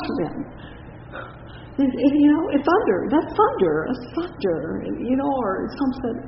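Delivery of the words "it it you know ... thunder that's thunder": high, excited bystanders crying thunder; mock crowd. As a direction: play the startled crowd, pitched high. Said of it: "all they could say".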